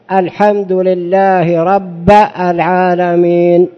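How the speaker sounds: الحمد لله رب العالمين drawn out very slowly with a changed vowel; wrong vowel reading. Shown as a demonstration. Sheikh demonstrating a vowel mistake in al-Fatiha, very slow. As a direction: read it slowly with a vowel error. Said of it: "هذا لحن".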